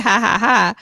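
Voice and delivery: spoken-out, pretend laughter; mock laugh. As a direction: fake a laugh in evenly spaced syllables. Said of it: "get a good laugh".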